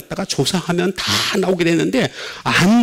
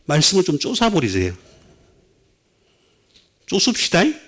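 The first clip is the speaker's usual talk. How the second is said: playful, light Jeolla dialect. Acted. Preacher jokingly urging congregation into scripture, light Jeolla dialect. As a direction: urge them on with a Jeolla lilt at the end. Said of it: "전라도 말로 이거 뭐라 그래요".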